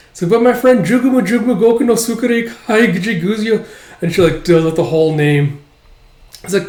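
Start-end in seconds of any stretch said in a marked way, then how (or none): 0.3-3.6 high, put-on kid voice; child's high-pitched objection; protesting child. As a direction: argue back like a pleading kid. Child argues with father.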